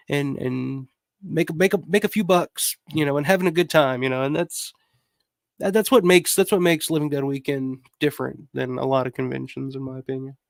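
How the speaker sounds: chewing ice while talking; talking around a mouthful of ice. Real, not acted. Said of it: "Sorry, chewing ice on mic again".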